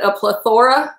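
"plethora" with stress on THOR; mispronounced plethora. Retold or imitated. Quoting Vinny's mistake, plethora stressed pleh-THOR-uh. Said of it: "It's not plethora".

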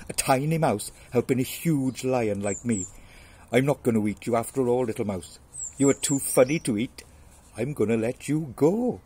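loud, lightly voiced lion; amused lion. Lion mocking mouse's offer, loud amusement. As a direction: boom it out, amused.

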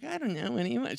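a hint of a coy girlfriend; girly date voice. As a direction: mimic her coy indecision lightly. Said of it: "She really didn't talk that way, but for this story, she did".

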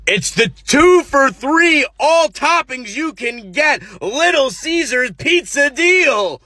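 high, very slow overacted announcer; ad pitch again. Man in white repeats the pizza deal, slow and overacted. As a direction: spell out the deal like a hard sell.

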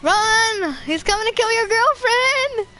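high, urgent playful cry; calling out warning. Pretend. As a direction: call out to warn a friend.

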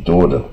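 "door" with a curled-tongue r; retroflex r sound. Shown as a demonstration. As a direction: curl the tongue to end "door". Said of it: "这卷舌音".

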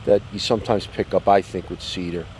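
talking around a cigar; cigar in mouth. Real, not acted. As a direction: lips closed on cigar. Seen 1: Cigar held at his lips while talking, lowered by 6.7.

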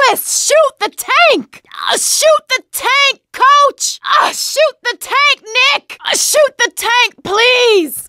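high, urgent call to shoot; urgent pleading. Acted. Begging teammates to shoot tank.

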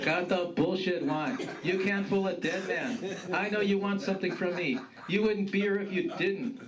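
lightly voiced suspicious grandfather; no-nonsense grandfather. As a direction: call out your grandson, a touch of gruffness.

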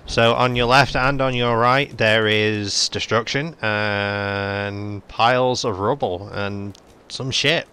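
slow, drawn-out tour guide patter; mock tour guide. Showing companions the ruins, slow mock tour guide. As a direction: play the tour guide pointing out the ruins, slowly. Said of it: "I'll be your tour guide".

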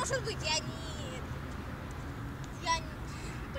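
stumbling over the words, slow; words tangling, tongue-tied. Real, not acted. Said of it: "у меня язык заплетается".

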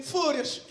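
"Fúrias" said with an o-like first vowel instead of "férias"; mock Portuguese pronunciation. Answering the border officer, Portuguese-style "Fúrias". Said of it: "Fúrias é férias".

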